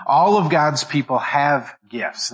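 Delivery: "all" drawn out and leaned on; stress on all. Shown as a demonstration. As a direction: lean slowly on "all" at the start. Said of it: "notice my intonation. Notice my emphasis".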